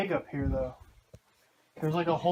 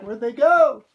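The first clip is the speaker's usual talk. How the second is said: imitating Philip; 8 semitones higher, 16 dB louder than usual. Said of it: "Philip's gonna be like".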